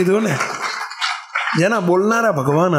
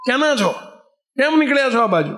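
mildly raised storyteller's call-out; higher-pitched challenge, only half shouted; retold bandit's call; 3 semitones higher than usual. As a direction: lightly act a bandit hailing monks. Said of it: "વાલેરાએ બૂમ પાડી".

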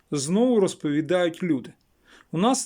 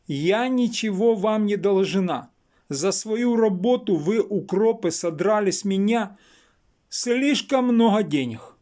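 mildly raised, higher-pitched mock yell; retold drunken shouting; 4 semitones higher, 3 dB louder than usual. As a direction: imitate an indignant rant, slowing for emphasis. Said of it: "І ще почала кричати".

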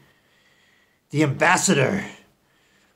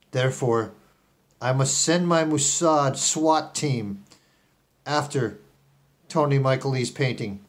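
Elon Musk. Acted. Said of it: "I'm speaking in a disguised voice".

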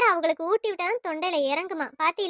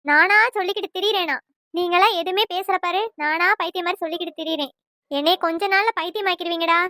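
louder, accusing rant at the daughter-in-law; scolding mother-in-law; 4 dB louder than usual. Acted. Mother-in-law blaming daughter-in-law for the split, loud scolding. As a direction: go after her hard, blaming her for everything.

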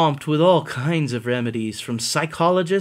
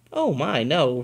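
put-on sweet old lady. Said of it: "replied the kind old woman".

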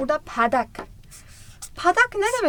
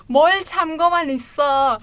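laughing through the lyric; 3 dB louder, faster than usual. Real, not acted. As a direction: say it with a laugh, still excited. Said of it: "ben bile heyecanlandım". (gülerek heyecanla)

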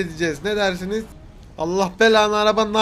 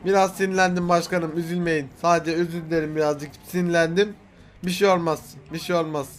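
subdued after an outburst; calming apology; 4 semitones lower, 4 dB quieter than usual. Pretend. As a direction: back down and reassure.

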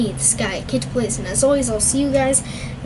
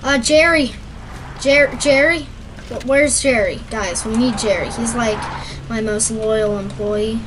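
raised voice calling a name. Real, not acted. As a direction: call across the room for Jerry. Calling for missing employee.

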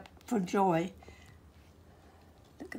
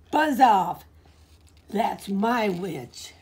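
monster voice; 4 dB louder, slower than usual. Acted. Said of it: "a yowl and a growl and a croak and a shriek".

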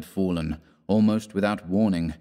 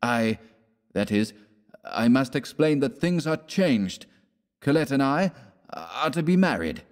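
lightly raised West; 5 semitones higher than usual. Acted. West announcing marriage.

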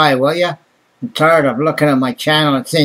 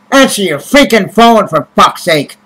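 angry outburst; 3 semitones higher, 3 dB louder than usual. Real, not acted. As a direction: let the frustration burst out. Ranting about people ignoring calls.

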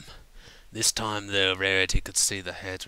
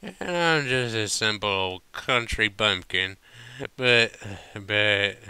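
put-on earnest drunk; 2 semitones higher, 5 dB louder than usual. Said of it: "continued earnestly".

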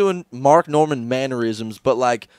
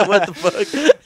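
incredulous; 6 semitones higher, much slower than usual. Real, not acted. Incredulous laughing reaction.

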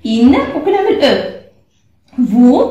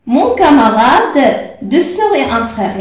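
slow reading; much slower than usual. Shown as a demonstration. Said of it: "reading the exercise aloud".

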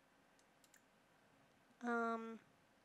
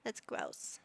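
stern dad voice; 12 semitones lower than usual. Acted. Dad scolding kid playing in toilet, deep stern voice. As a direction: boom it down like a strict dad.

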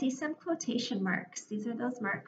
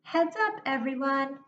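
yelled; 3 semitones higher, 3 dB louder than usual. Shown as a demonstration. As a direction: yell it out like Anne does. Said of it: "it should sound like this".

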